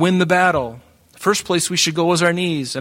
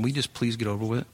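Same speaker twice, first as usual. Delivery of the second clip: impatient women; 5 semitones lower, 8 dB quieter, much faster than usual. Retold or imitated. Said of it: "all the women are going".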